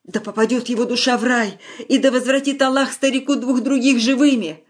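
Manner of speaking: high, plaintive prayer for the bereaved; high-pitched prayerful lament; consoling old woman. A narrator's reading. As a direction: wish it aloud as a tearful old woman's blessing. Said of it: "то ли горбуну в утешение сказала".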